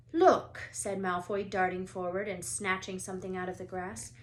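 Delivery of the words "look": high loud call; eager. A narrator's reading. Malfoy calls out spotting the Remembrall. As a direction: call attention gleefully.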